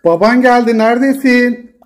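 singsong "where are you" call. Real, not acted. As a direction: call out to find someone, stretching the last word. Calling the cat on arrival.

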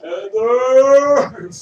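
loud, drawn-out call across the room. Real, not acted. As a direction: call her name over the noise. Calling the bartender across bar.

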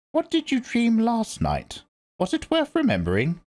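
put-on grave old priestess speaking; stern old Reverend Mother. A narrator's reading. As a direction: lecture her like a severe elder. Old woman presses Paul.

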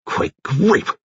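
high, strangled outburst; anguished cry. A narrator's reading. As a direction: cry out as if stung. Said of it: "Seiss cried out".

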